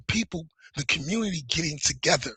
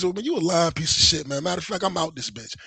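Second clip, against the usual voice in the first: mild mock anger. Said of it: "It was".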